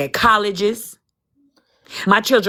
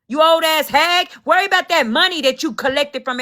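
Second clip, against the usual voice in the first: higher-pitched, indignant telling-off; heated, exasperated scolding; real angry rant; 4 semitones higher than usual. Real, not acted. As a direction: tell off the meddlers, pitch riding high. Angry rant at online critics.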